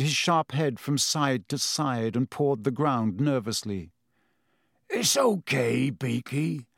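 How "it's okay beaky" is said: understated soft reassurance in a character voice; soft, soothing. A narrator's reading. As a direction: gently soothe a nervous animal. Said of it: "said Hagrid softly".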